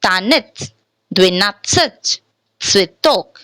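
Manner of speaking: "Tanit, dvinatsach, switok" each with "ye" reduced to short "i"; light unstressed "i" in "Tanit", "dvinatsach" and "switok"; short glimpse of E. Shown as a demonstration. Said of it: "short glimpse of E".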